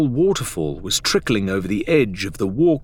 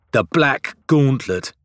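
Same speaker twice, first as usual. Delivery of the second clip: grim; 5 semitones higher, 4 dB louder, slower than usual. A narrator's reading. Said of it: "Adelaide said grimly".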